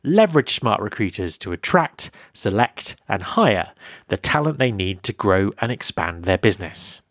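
polished, evenly phrased podcast ad read; sponsor ad read. Acted. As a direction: read the sponsor copy clearly and deliberately. Host reads a sponsor message.

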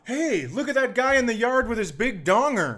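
high, goofy bystander voice; silly gawking neighbor. Pretend. Imagined bystander quote.

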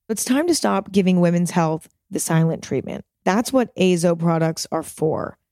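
steady sponsor-read voice; smooth, even advert delivery. Acted. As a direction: read it like a podcast ad spot.

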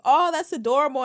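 mock gushing. Imitating people fawning over the ring, gushing. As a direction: coo like an impressed fan.

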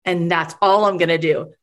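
low, understated insistence; deadpan imitation of a dull pitch; matter-of-fact pitch. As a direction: repeat it as a modest, unremarkable offer. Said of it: "But no, it wasn't that".

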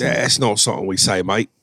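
a light put-on English accent; playfully Brit, tacking on mate; mock British accent. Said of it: "we'll probably get something from England going".

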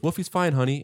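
a hint of a soothing mother; foster mother. Foster mom reassuring her boy, lightly imitated. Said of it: "she goes".

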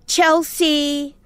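high, drawn-out half-hearted call; sing-out name call with little effort. Retold or imitated. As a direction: imitate someone lazily calling a dog. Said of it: "like that, half-assed".

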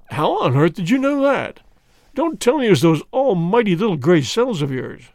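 put-on friendly, teasing police inspector greeting an old rival; a hint of a bluff English detective; inspector Japp voice. Japp astonished.

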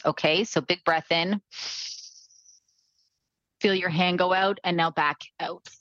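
calm instructor guiding breaths; guided breathing. Acted. Leads a breathing exercise.

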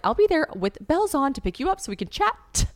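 high, gushing pickup offer; eager promise. Retold or imitated. Promising her friend a ride to chat, eager and high. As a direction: pitch it up, overeager.

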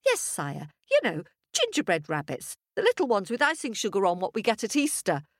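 lightly voiced eager wife; a hint of a proud village gossip; chatty farmer's wife. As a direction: prattle on happily to the king.

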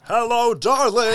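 put-on old Hollywood darling greeting; breathy vintage purr. Mock sexy voice bit.

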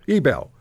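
"Ebel" echoed with a full BELL ending. Shown as a demonstration. Host repeating the guest's correction, Ebel as ee-BELL. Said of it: "How do you pronounce his name?".

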